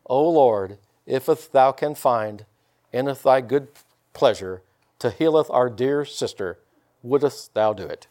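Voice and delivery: put-on slow, meek, old-fashioned churchy plea; mock timid prayer. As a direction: lightly parody a timid, hesitant prayer. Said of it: "I'm not going in there timidly".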